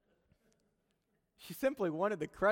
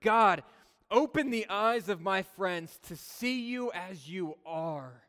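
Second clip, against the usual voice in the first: sample prayer; 3 semitones higher, 4 dB louder, slower than usual. Shown as a demonstration. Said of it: "Praying prayers like".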